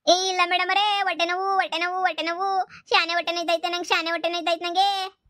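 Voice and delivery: high, put-on moaning about pain; faked stomachache. Prisoner keeps faking pain before the officer, high put-on moaning. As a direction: keep up the act for the officer.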